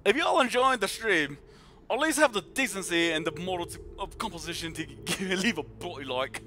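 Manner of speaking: playful attempt at an English accent. Shown as a demonstration. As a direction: read it aloud in an English accent. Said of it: "see if I can read an English accent".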